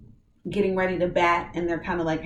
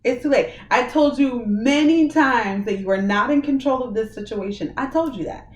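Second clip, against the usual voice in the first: higher, louder stern divine rebuke; a warning voice from heaven, raised and firm; voice of the Lord; 5 semitones higher, 5 dB louder than usual. Retold or imitated. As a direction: deliver it as God scolding from above. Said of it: "the Lord was like".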